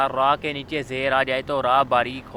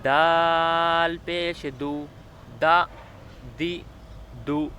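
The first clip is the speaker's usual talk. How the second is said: Qaida recitation. Shown as a demonstration. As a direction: spell each letter out clearly for a child learning to read. Teacher recites Qaida syllable drill.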